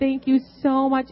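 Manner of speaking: overjoyed thanks. Retold or imitated. Thanking the service manager.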